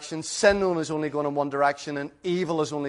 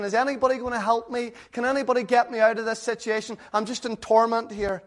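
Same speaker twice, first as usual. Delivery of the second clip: mild imagined cry for help; 5 semitones higher than usual. Retold or imitated. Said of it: "he's crying out".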